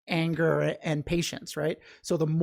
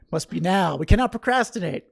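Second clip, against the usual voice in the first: mock insistence; 6 dB louder than usual. Real, not acted. Continues joking refusal to put it off.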